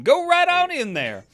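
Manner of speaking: high, loud barker send-off; ringing old-timey barker's call; carnival barker. Pretend. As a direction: usher the crowd in like a sideshow showman. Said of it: "can we get, like, a carnival barker".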